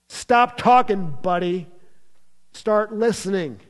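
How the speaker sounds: God the Father silencing Peter mid-sentence; stern rebuke. Acted. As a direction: cut him off firmly. God's rebuke paraphrased.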